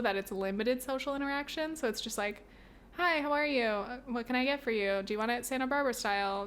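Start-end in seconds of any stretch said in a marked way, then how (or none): 3.0-6.5 unfriendly cashier. Retold or imitated. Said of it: "It's not very friendly".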